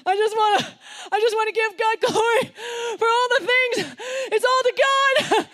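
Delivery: high, loud, overwrought player shouting praise; mock football star. Preacher mocks a Super Bowl winner thanking God. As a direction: ham up a gushing post-game speech. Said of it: "at the end of the Super Bowl".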